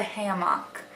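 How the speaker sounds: "hammock" as HAM-mock, full vowel at the end; Wisconsin pronunciation. Shown as a demonstration. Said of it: "I always grew up saying".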